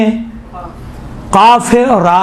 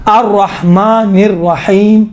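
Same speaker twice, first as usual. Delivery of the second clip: very slow "الرحمن الرحیم", halting at the end; tartil recitation; much slower than usual. Shown as a demonstration. Teacher modelling pauses for students, slow tartil. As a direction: stretch "الرحیم" and stop on its M. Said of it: "رکے".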